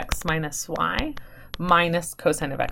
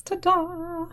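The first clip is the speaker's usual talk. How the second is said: high, proud ta-da at the reveal; triumphant ta-da; 13 semitones higher than usual. Real, not acted. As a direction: present the answer like a magic trick. Reveals the solved identity.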